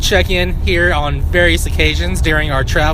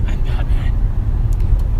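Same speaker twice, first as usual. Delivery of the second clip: slow, rasping Batman growl; gravelly Batman voice; much slower than usual. Pretend. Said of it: "You just have to have a real gravelly voice".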